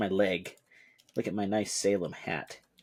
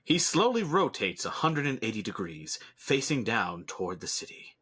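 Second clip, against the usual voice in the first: narrator voice. Acted. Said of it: "I like using my narrator voice".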